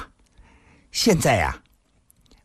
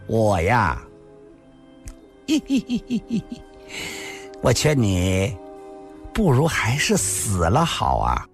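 gently said. A narrator's reading. Woman turns back smiling to the beaten man, gently mocking. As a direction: say it tenderly, with a little laugh mid-phrase. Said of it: "柔声地说道".

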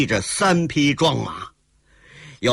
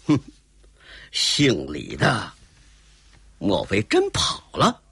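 cold sneer; 5 semitones lower than usual. Acted. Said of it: "卓君明冷笑了一声".

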